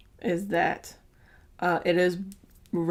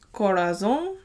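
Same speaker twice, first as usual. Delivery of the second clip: Spanish accent. Real, not acted. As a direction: try the word Corazon with a Spanish accent. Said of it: "Don't mind my horrible Spanish accent".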